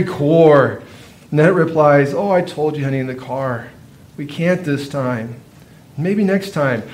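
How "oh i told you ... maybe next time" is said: put-on softer, calm refusal to a child; gentle soothing mother. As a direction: let him down gently, quietly.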